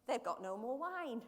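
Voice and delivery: lightly put-on Yorkshire mother; playful touch of Yorkshire; Yorkshire accent. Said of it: "she sounds like she's from Yorkshire".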